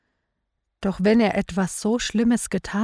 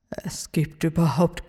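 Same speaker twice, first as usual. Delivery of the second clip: whisper. Acted. King whispers in despair.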